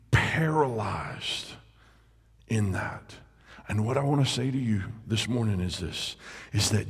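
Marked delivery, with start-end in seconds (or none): 0.1-3.2 whispered word. Acted.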